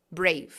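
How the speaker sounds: "Brave" closed on the V; stop on the V. Shown as a demonstration. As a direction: model "Brave" without a trailing vowel. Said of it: "como se parasse no V".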